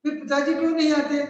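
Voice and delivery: put-on a boy pleading for an answer; child Rahul. Rahul presses his mother why father won't come, high child voice. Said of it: "वो कहता".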